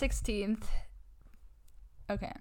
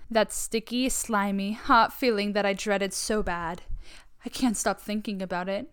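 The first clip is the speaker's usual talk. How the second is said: hammy dramatic reading; 3 semitones higher, 4 dB louder than usual. Pretend. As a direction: read it like a tragic diary. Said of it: "Let me get into character".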